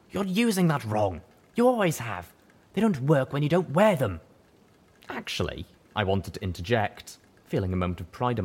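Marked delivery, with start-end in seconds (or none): 0.1-4.2 high, loud know-it-all buck; scolding high stallion. Acted. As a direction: lecture her, exasperated.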